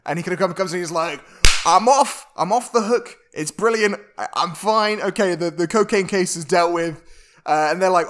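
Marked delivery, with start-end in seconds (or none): 1.6-7.0 excited. Retold or imitated. Triumphant retold quote of Charlie.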